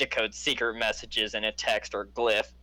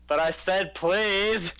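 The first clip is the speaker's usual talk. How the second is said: higher, drawn-out, slow indignant "please"; 7 semitones higher, much slower than usual. Acted. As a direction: insist up at the wall, offended. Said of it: "I'm gonna just say".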